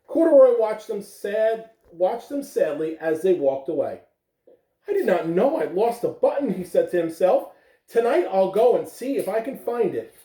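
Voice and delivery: gentle read-aloud storytelling voice; lively picture-book reading; reading to children. Acted. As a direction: read it like story time for little ones. Teacher reads picture book aloud.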